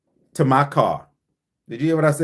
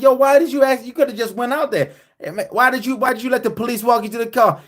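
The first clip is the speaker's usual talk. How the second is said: buddy's voice; 7 semitones higher, faster than usual. Retold or imitated. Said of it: "He was like".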